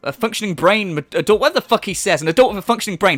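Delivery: worked-up, incredulous rant; real exasperation. Real, not acted. Commentator fed up with a high earner's debts, real exasperation. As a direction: rant until the words get tangled. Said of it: "Sorry, I'm so mad".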